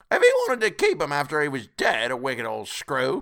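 high, loud character voice; scornful charwoman. A narrator's reading. Charwoman condemning the wicked old screw, scornful. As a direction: run the dead man down, pitched high. Woman condemns the dead man.

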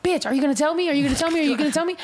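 mock badgering with rising questions; impatient pestering. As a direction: press for an answer, imitating an impatient friend. Acted friend demanding to be told.

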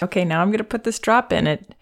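frank, caring parent; honest empathic explaining. Shown as a demonstration. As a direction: tell the baby straight that it stings. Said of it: "I would say in the moment".

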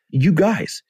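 high-pitched exasperated outburst at friends; indignant retelling, voice pushed high; retold anger. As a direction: act out being angry at your buddies, pitch jumping up. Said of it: "physically angry at them".

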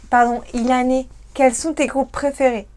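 slowed-down, measured question. Real, not acted. Host repeats her question for Ilané, slowed and careful. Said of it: "pardon si je parle trop vite".

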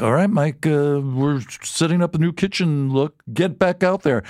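lightly hammed-up stage manager rushing him; pushy producer calling him back on stage. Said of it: "they're like".

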